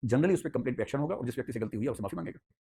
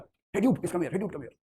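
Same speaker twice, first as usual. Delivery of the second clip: calling out; 5 semitones higher, much slower than usual. Retold or imitated. Cop calls colleague over.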